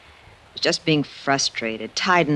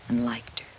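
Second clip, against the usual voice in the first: whispered, moved; awed near-whisper; soft whisper of wonder; hushed; 3 semitones lower, 6 dB quieter than usual. Acted. Tender, moved reflection.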